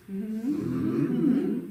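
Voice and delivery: hummed Mm-hmm with a rising tune, lips closed and buzzing; spoken mm-hmm. Shown as a demonstration. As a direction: let the Mm-hmm buzz on the lips and lift at the end. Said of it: "like, a spoken mm-hmm".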